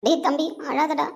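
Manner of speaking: slow soothing words to a crying son; tender comfort. Acted. Mother slowly soothes her crying son, tender. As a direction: gently hush him.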